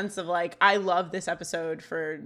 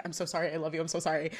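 softer, hurried repeated apology; mildly imitated apology; 4 semitones lower, 6 dB quieter, much faster than usual. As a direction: lightly act out apologising between takes. Retells actress apologising between takes.

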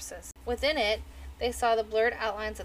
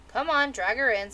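put-on old crone voice; 2 semitones higher, 6 dB louder than usual. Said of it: "said the crone".

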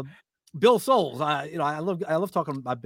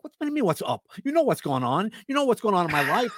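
higher-pitched, mock-offended retort; irritated comeback; 5 semitones higher than usual. Texter on a really bad day misreads a greeting, irritated. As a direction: act touchy, as if having a bad day. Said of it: "if you're having a really bad day".

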